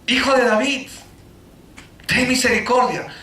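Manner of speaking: gritando. Retold or imitated. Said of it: "Eso es lo que ellos están gritando".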